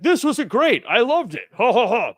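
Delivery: high, loud mock-gushing with a forced laugh; put-on laughing enthusiasm. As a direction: gush loudly, then tack on a fake ha-ha-ha. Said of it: "why I'm laughing like that".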